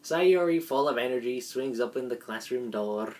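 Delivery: ordinary talk, nothing marked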